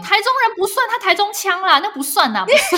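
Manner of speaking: high, loud indignant protest; retelling the argument with her husband, loud and indignant. Retold or imitated. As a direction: insist loudly it doesn't count. Arguing she wasn't wrong.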